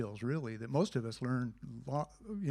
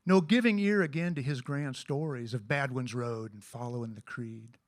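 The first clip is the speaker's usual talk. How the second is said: measured poem reading; poem recitation. Acted. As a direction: recite the verse with feeling. Recites a poem about friendship.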